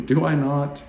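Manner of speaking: a light playful divine reply; lightly voiced Jesus. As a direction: tease gently with certainty. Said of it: "He's like".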